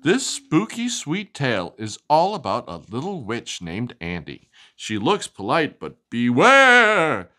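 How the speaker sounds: lively, sing-song storybook reading; animated picture-book narration; reading to children. Acted. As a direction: read it like bedtime story time for a child.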